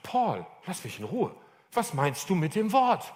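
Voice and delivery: drawn-out, slow exasperated retort; mock exasperation, stretched out. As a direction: plead wearily to be left alone, dragging the words. Acted exasperated reply to Paul.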